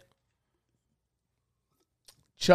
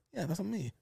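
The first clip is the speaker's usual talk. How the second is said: soft, higher broken-English Italian voice; Grandpa, Italian accent; 5 semitones higher, 13 dB quieter than usual. Retold or imitated. Grandfather confirming an old photo, Italian accent. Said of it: "remember fucking Angelo's fucking accent".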